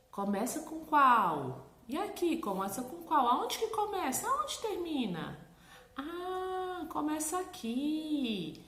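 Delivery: put-on high, slow coaxing questions to a child; singsong coaching voice for a toddler; teacherly questioning. Shown as a demonstration. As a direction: guide a small child gently, stretching words. Mother guiding child through letters.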